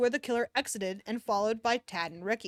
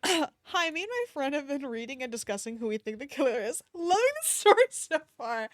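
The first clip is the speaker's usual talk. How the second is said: mock fan comment; 2 semitones higher than usual. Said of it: "mock comment to author".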